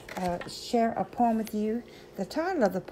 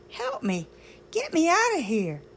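mild mock yell; 8 semitones higher than usual. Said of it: "I yelled".

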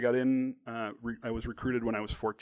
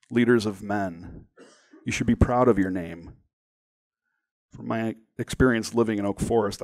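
emphatic, deliberate storytelling; dramatic story reading; 7 dB louder than usual. A narrator's reading. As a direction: read with weight, voicing a recruiter's pitch. Reads story, voices recruiter's speech.

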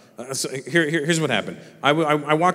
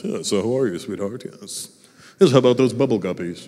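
mock grown-up chat with a child; 4 semitones lower than usual. Parents talking to children like they're adults, mock grown-up chat. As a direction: parody of a parent making adult small talk. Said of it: "talk to the children like they're adults".

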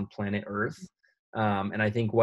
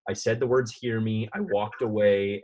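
put-on defensive teen; 3 dB louder than usual. Teen defending herself to mom.

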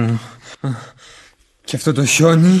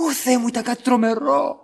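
horrified; 3 semitones higher, 5 dB quieter than usual. Acted. Witness recalls the terrible scene to the others, horrified. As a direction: let the voice fall away in dread.

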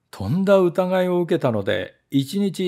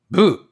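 grumpy boo; 5 semitones higher, 7 dB louder, faster than usual. Acted. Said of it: "とネズミ捕りは答えました".

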